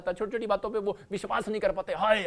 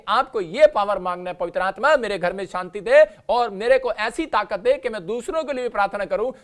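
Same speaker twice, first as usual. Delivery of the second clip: louder emphatic sermon; fiery preaching; 6 dB louder than usual. Acted. Preacher telling the church what to pray, emphatic. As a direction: press the prayer on them.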